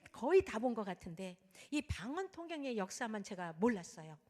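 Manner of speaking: ordinary delivery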